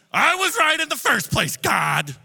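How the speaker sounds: high, loud indignant whine at God; pity party. Acted. Jonah sulking at God after Nineveh is spared, a loud whine. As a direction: sulk like a prophet who wanted to be right. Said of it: "does a pity party".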